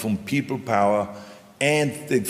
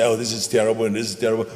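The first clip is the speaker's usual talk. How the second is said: mock whining; faster than usual. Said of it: "just whine and say".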